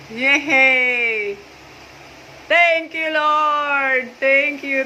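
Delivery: drawn-out, joyful cheers; jubilant calling out. Real, not acted. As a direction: call the good news out to the neighbourhood. Calling out thanks and news. (masayang sigaw ng pasasalamat)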